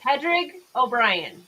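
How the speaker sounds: "Pedrig O'Brien" said slowly, PED-rig oh-BRYE-en; spelling the name out in sound, slowly; slow, deliberate "Pedrig O'Brien"; careful name reading. Shown as a demonstration. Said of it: "Is that how you say your name?".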